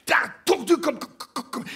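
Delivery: high stammer, breaking into stuck syllables; desperately searching. A narrator's reading. Queequeg hunting for a word, stammering. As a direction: stutter it, groping for the word. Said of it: "Il cherchait éperdument le mot".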